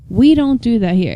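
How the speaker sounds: mildly stern house rule; firm, stern. Retold or imitated. Moderator setting the house rule, firm and mildly stern. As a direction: lay down the rule firmly, voice kept level. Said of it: "very firmly and very sternly".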